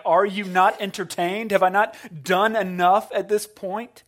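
loud arena cry, Are you not entertained; Maximus crying out. Retold or imitated. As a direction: shout it like a gladiator to the crowd. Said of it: "This is Maximus crying out".

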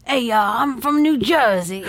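mock New Jersey accent, drawn out; hammed-up New Jersey accent with a laugh. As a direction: put on a slow, playful Jersey accent. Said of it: "Jersey accent?".

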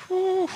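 a shaky breath out, overcome; emotional exhale. Real, not acted. Pastor overcome while thanking Emberly, emotional exhale. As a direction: let the feeling out in one breath. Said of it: "I get emotional about that every time".

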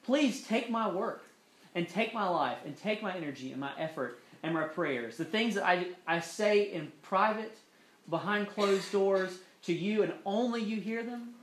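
a sample prayer offered up. Shown as a demonstration. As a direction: pray it with feeling, unhurried. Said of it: "And we say".

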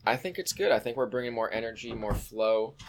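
soft, intimate podcast purr; sweet nothings. Pretend. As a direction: murmur softly to the listeners. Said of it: "whisper sweet nothings to our listeners".

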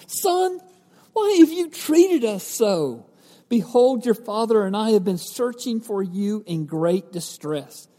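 high, scolding mom's plea; worried mother. Retold or imitated. Mary scolding her lost son, high pleading scold. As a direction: scold him like a frantic mother. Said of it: "She gives Jesus some classic mom's speech".

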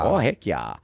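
mock Minnesotan echo; Minnesota accent. Host echoing co-host in accent riff, Minnesota accent.

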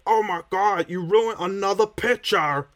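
high, hammed-up fake British dad; put-on British accent. Podcaster mocking a cartoon dad's voice, fake British accent. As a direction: exclaim it in an overdone, unconvincing British accent. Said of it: "someone trying to put on a British accent".

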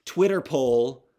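lightly mimicked teen, loud and drawn out; teen girl calling out. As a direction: announce it slowly like a movie teen. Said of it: "one of them goes".

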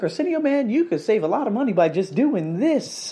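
high-pitched coaxing trainer; retold trainer. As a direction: mimic a trainer pitching an idea, starting high. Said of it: "He was like".

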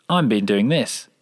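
slow line left hanging after a long gap; gappy slow reply. Shown as a demonstration. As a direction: wait a beat, then say it slowly. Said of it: "newbie sound designers you hear".

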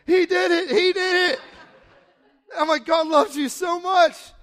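high, loud ecstatic shouts of joy; overjoyed shouting. Retold or imitated. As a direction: yell it like you just saw a miracle happen. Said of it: "I'm freaking out. I'm like".

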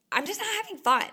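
high, loud whine; whiny complaint. Retold or imitated. Telling herself she is having no fun, high loud whine. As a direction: whine it like a sulking kid.

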